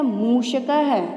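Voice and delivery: मूषकः with final h sounded; visarga as ha. Shown as a demonstration. Teacher reading the word list to children, visarga as ha. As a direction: finish मूषकः on an audible "ha". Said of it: "एक एक करके इन शब्दों का उच्चारण करती हूँ".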